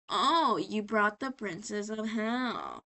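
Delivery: slow, drawn-out words; mock oily greeting. Valentino on seeing Charlie at work, mock oily and slow. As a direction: stretch it out like a scheming boss. Boss greets unexpected visitor.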